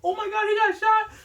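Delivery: high, loud shocked cry; shocked outburst. Retold or imitated. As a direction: blurt it out in sudden disbelief. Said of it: "I'm like".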